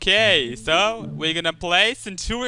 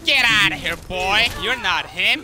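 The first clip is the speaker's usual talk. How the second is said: shouting; 3 semitones higher than usual. Real, not acted. Yelling at the enemy in game.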